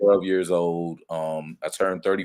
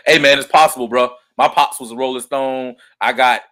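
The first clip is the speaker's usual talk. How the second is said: laughing; 6 semitones higher, 11 dB louder than usual. Real, not acted. Joking about his father.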